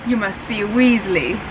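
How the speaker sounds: a light imitation of a snooty British accent; lightly voiced British schoolboy, the movie Draco. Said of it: "I don't know why I'm doing the accent".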